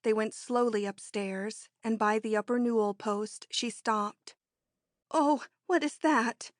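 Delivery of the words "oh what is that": mild higher wail of fright; a touch of a frightened wail. Acted. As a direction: Missus Dupre hearing the distant roar. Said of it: "she wailed".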